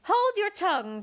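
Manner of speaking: indignant flower shouting someone down; Tiger Lily crying out. Acted. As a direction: cut the Violet off sharply. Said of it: "cried the Tiger Lily".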